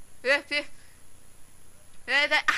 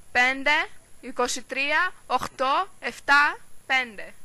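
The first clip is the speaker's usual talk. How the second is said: digit by digit, projected; dictating digits; slower than usual. Acted. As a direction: read out a number down the phone. Dictating a number on the phone.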